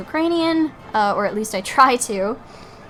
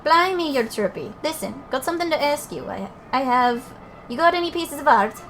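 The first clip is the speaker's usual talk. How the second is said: lightly voiced Scottish fairy, a bit higher; shitty Scottish accent; 3 semitones higher than usual. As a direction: read the fairies in a cheap Scottish lilt. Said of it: "shitty Scottish accent".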